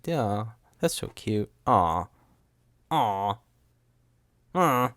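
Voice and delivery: slow, drawn-out cooing aws; mock cooing. Podcaster reacting to Ray's wish, mock-sweet cooing. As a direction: react as if it's adorable.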